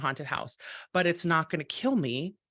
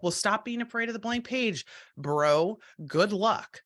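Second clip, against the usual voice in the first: higher-pitched mocking brush-off; mock dismissive advice; 4 semitones higher than usual. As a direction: imitate someone brushing off a worried friend. Mimicking unhelpful, dismissive advice.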